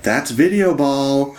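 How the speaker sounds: high, drawn-out game announcer voice; announcer shout. Retold or imitated. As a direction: call it out like an arcade announcer. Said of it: "they'll just shout things like".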